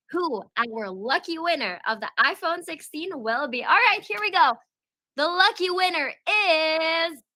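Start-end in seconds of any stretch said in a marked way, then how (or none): 3.6-7.2 excited announcement. Real, not acted. Announcing the iPhone winner.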